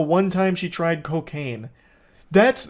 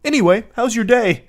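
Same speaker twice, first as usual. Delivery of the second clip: laughing mock cheer; 5 semitones higher, 5 dB louder than usual. Mocking sudden friendliness.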